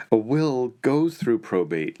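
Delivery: a touch of a know-it-all diner correcting his friend; lightly voiced man. Man at next table corrects his friend, mildly voiced. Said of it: "another guy saying".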